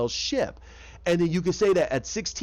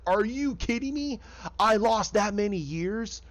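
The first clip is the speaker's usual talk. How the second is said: mock-incredulous, pitched up; retold disbelief; 4 semitones higher than usual. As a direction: act out her disbelief in a higher voice. Retold freak-out over lost years.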